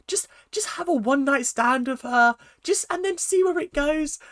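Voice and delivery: high-pitched, laughing voice for the dad; laughing retelling. Retold or imitated. Reviewer quoting the dad's shocking advice, laughing and high-pitched. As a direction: barely get the quote out for laughing.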